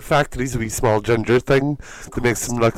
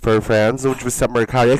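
normal talking voice

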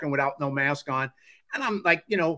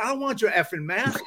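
going Bronx; 6 semitones higher than usual. Retold or imitated. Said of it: "I'm going Bronx".

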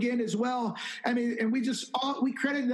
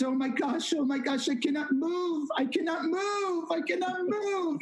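climbing higher with each imitated cry; retold overwhelmed trembling; 8 semitones higher than usual. Woman prayed over in the grocery store, retold as overwhelmed. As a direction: act out someone overpowered, pitch rising. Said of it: "She's trembling under the power of God".

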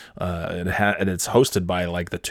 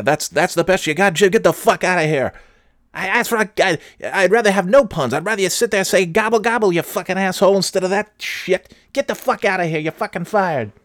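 high, loud screaming anchor tirade; imitated furious anchor; 11 semitones higher, 4 dB louder than usual. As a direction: blow up at the cohost like a raging boss. Anchor berating Jim again.

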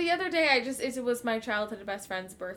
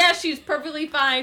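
laughing; 5 semitones higher, 10 dB louder than usual. Retold or imitated. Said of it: "I'm like".

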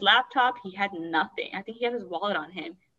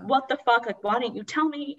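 mildly heated, higher-pitched reproach; retold indignant outburst, pitched up; retold angry cussing; 4 semitones higher than usual. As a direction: imitate an angry sister demanding answers. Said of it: "getting so angry and, like, cussing".

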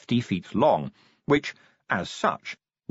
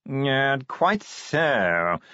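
posh yawning voice; 3 semitones higher, much slower than usual. Acted. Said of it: "modulated yawning".

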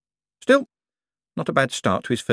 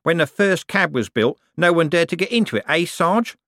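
happily; 8 semitones higher than usual. A narrator's reading. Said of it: "said Nobby happily".

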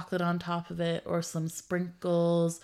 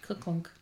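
soft, whispered clunking noise; whispered comic sound effect; hammer clunk; 5 dB quieter than usual. Retold or imitated. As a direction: quietly imitate a bonking hammer.

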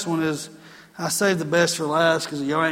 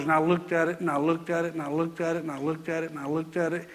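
each repeat softer until almost gone; fading repetition; 5 dB quieter than usual. Retold or imitated. Pastor recalling years of staring at a debt, fading softer each time. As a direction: let it trail away, line by line.

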